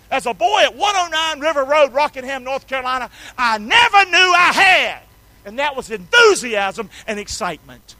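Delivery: high, loud rising proclamation; preacher shout. Real, not acted. Preacher shouting about his excitement to the congregation. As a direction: preach it out with fire.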